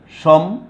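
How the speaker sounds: সম্মিলিত broken into shom, mi, li, to with long pauses; syllable by syllable. Shown as a demonstration. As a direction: dictate সম্মিলিত one syllable at a time. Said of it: "এটাকে উচ্চারণ লিখি".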